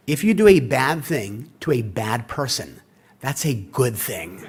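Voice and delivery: half-laughing the punchline; laughing through it. Retold or imitated. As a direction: spell out the rule slowly, chuckling. Wife's rule retold, laughing.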